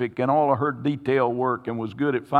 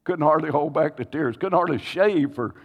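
tearful retelling; 3 semitones higher than usual. Retold or imitated.

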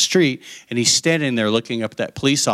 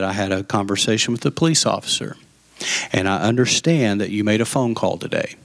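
low, restrained dad voice; calm father; 4 semitones lower than usual. Retold or imitated. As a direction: imitate a dad keeping very calm. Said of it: "he was actually very calm".

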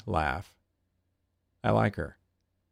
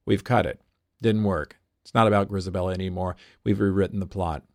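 deadpan; 4 dB louder, faster than usual. Retold or imitated. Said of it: "A L W deadpans".

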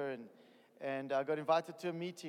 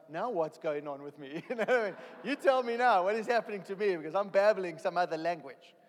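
acted bewilderment; 3 semitones higher, 8 dB louder than usual. Testifier retelling his first time speaking in tongues, bewildered. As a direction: exclaim it like a baffled new convert.

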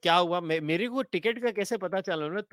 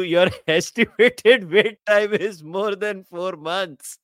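louder, slow read with a laugh; incredulous laughing read; 6 dB louder, much slower than usual. Real, not acted. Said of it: "What the hell?".

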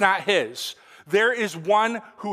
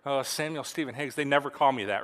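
softly voiced, lower aside as the child; a quiet, low "uh-oh" thought; child's realization; 4 semitones lower, 5 dB quieter than usual. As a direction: lightly play the kid who realizes it's serious. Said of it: "And he knows".

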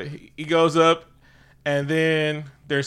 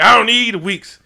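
louder, higher cocky brag; hammed-up cocky fighter; mock boast; 7 semitones higher, 9 dB louder than usual. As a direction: wave off the delay. Killmonger boasting, retold.

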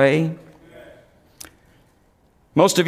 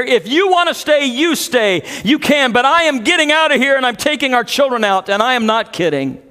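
higher, insistent frustrated ultimatum; retold frustration; 4 semitones higher than usual. Frustrated wife gives her husband an ultimatum, retold with insistence. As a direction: drive it upward, then settle into firm finality. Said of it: "in just total frustration".

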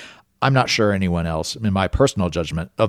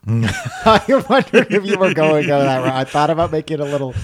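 laughing through the words; chuckling while speaking; 7 semitones higher, 3 dB louder than usual. Real, not acted. Laughing at the tank joke.

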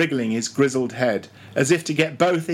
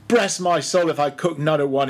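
a mild, understated angry grumble; angry growl; 3 semitones higher than usual. Acted. Old cook refusing Stubb, mildly angry growl. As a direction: grumble it as you turn to leave. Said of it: "he growled angrily".

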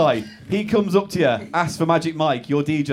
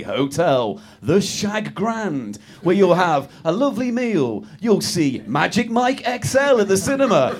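game-show prize announcement; 3 semitones lower than usual. Acted. Host announcing the winner's night away, game-show patter. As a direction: savour each part of the prize.

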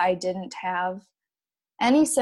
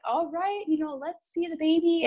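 imitating the doctor, pitched up and bright; the upbeat doctor before the scan; cheerful doctor; 8 semitones higher than usual. Doctor tells the patient to look at the baby, bright imitation. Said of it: "my doctor was like".

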